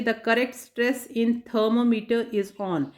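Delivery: slow, deliberate reading of the quiz line; slow question reading. Shown as a demonstration. Teacher reading a quiz question to students, slow and deliberate. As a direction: read each word out clearly and slowly.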